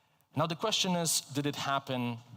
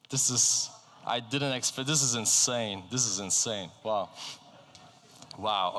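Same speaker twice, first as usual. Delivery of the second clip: amazed at the audience's response; real shock; 2 semitones lower than usual. Real, not acted. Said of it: "I'm shocked".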